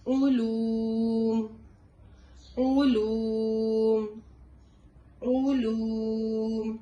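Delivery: علوم chanted very slowly and loudly, ain with rounded oo; recited with oo sound. Shown as a demonstration. Teacher chanting علوم to show ain with damma. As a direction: round the lips fully and draw out علوم. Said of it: "عین پیش او".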